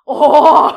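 sudden, very loud exclamation; loud "oh" outburst. Real, not acted. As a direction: belt out a big drawn "oh".

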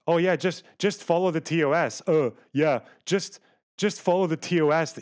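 sarcastic mimicry. Mocking chat's advice.

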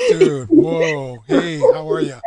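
loud, delighted shout to a friend; excited greeting. Real, not acted. Greets arriving friend on air.

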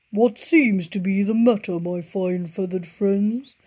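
sly and oily, as a fox; grinning fox. A narrator's reading. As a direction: fox greets the birds slyly, grinning. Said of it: "grinned Foxy Loxy".

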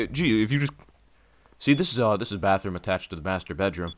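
lightly voiced salesman; breezy realtor showing the house; real estate agent pitch. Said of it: "I'm selling the house to you".

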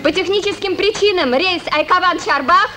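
formal public notice; airport announcement. Acted. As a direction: announce the delay officially. Announcing the trip is delayed.

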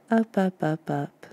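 repeated words stepping down in pitch and volume; drifting away. Acted. Guide picturing listeners floating up to the sky, voice fading away. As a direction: let each word fade as if floating off.

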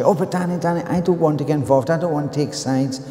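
mild retold protest. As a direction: plead gently to stay out of it.

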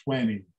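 "twenty" as TWEN-ee, softly; American twenty. Shown as a demonstration. Teacher repeating the American form, "twenty" as TWEN-ee. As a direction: open e and no second t in "twenty". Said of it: "os bem americanos dizem twenty".

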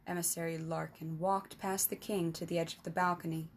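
measured storybook narration; story narration. A narrator's reading. Narrator reading a fantasy tale to listeners, steady storytelling. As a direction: read it like an audiobook chapter.

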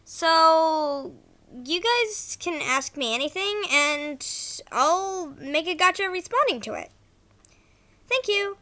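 ordinary talk, nothing marked

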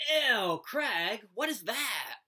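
high, loud, disgusted outburst; a schoolgirl's screeched "ew" at a bad smell; demanding screech. A narrator's reading. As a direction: shriek it at your friend in disgust. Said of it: "and demanded".

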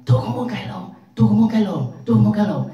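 high, loud foreigner botching the tone on "lộn"; sai dấu thanh. Retold or imitated. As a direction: shout it in a high voice, giving "lộn" a falling huyền tone instead of nặng. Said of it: "dấu huyền thì vậy". (giọng Tây cao, to, đọc "lộn" thành dấu huyền)

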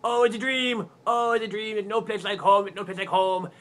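put-on excited waking girl. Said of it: "and she goes".

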